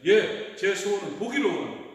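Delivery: acted-out beggar's ready request; Bartimaeus answering without hesitation. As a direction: answer at once, pleading for sight. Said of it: "이 바디메오는 서슴지 않고".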